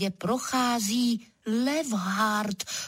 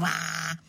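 leopard roar; 4 semitones lower than usual. A narrator's reading. Leopard protests at being shouted at, roaring. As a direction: lower drawn-out mock roar.

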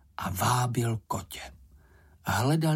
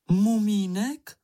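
higher, louder, drawn-out slow rising cry; startled cry; 8 semitones higher, 4 dB louder, slower than usual. A narrator's reading. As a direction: cry out his name in alarm. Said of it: "vykřikla maminka". (polekaně vykřikne, táhle a výš)

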